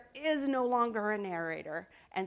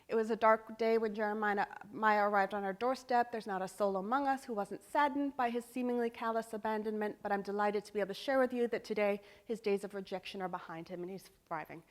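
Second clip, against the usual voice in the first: caring gentleman narrator. Shown as a demonstration. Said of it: "That's a very caring gentleman".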